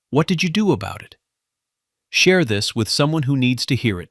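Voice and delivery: upbeat call to subscribe; channel outro. Acted. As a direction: pitch the viewers like a host.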